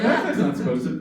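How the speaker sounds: alarmed passengers. Retold or imitated. Subway riders realizing a man is crazy, rising alarm.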